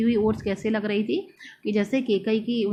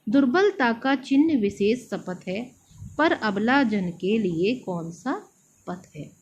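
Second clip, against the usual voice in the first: poem recital. Shown as a demonstration. Teacher recites poem lines. (कविता पाठ के अंदाज़ में)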